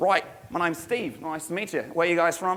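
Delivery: carefully practised put-on Australian accent. Telling a story, quoting a guy who came over, in a put-on australian accent. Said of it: "I hope you guys all appreciate my Australian accent".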